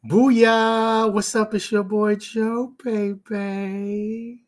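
high, loud hyped-up shout-out; big hype entrance, high and loud; hype intro. Real, not acted.

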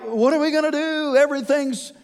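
playing the scared disciples, words tumbling out; freaking out. Preacher voicing panicked disciples facing the unknown, in mock panic. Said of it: "and they're freaking out".

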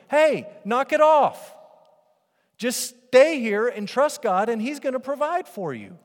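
high, loud, slow rebuke; commanding Moses. Retold or imitated. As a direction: shut the grumbling down. Voicing Moses' bold command.

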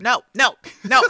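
loud, insistent protest at a casting idea; loud emphatic no. Real, not acted. Co-host floats Meg Ryan, she loudly refuses. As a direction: cut the idea down hard with a loud no.

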